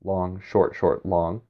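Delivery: "long" held, "short, short" quick, final "long" held; choriamb rhythm. Shown as a demonstration. Teacher beating out a choriamb for students, held and quick beats. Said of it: "then a choriamb".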